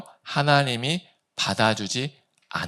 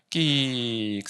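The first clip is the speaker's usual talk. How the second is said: imitated door creak; 4 dB quieter, much slower than usual.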